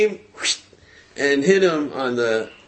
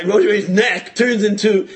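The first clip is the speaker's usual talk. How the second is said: laughing disbelief; 6 semitones higher, 4 dB louder than usual. Acted. Incredulous rant about the miracle.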